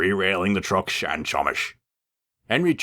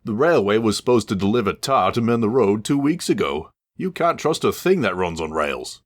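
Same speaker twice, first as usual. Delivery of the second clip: a mildly put-out bus voice, higher and louder; huffy bus; 6 semitones higher, 3 dB louder than usual. Acted. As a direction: grumble at the engine, a touch indignant. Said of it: "Bertie huffed".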